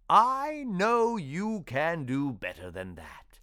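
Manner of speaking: a caring mentor, coaxing and slow; gentle. Acted. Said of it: "he prompted gently".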